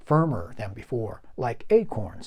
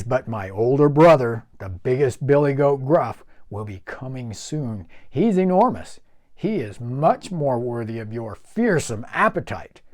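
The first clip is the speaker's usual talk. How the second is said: a lightly voiced, quick-witted goat; persuasive goat; 5 dB louder than usual. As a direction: coax the troll cleverly. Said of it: "quickly spoke up".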